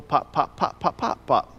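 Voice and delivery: Tennessee accent pop. Shown as a demonstration. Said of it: "it's a little pointed".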